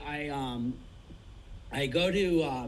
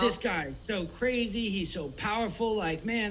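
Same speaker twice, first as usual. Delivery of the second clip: higher, eager retelling of a hyped friend; excited retelling; 5 semitones higher than usual. Retold or imitated. Tour manager retelling an amped-up friend, mildly excited. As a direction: gush about the documentary like the friend did.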